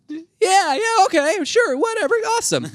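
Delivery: high, sarcastic, unimpressed yeahs; bored crowd. Retold or imitated. Half the crowd answers the press secretary, high and unimpressed. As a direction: shrug it off, totally unimpressed. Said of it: "half the crowd's like".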